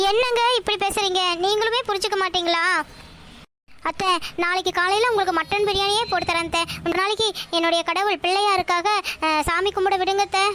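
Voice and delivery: mildly weepy appeal; understated acted tearfulness; tearful pleading. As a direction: plead as if close to crying. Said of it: "இப்படி அழுகாதம்மா".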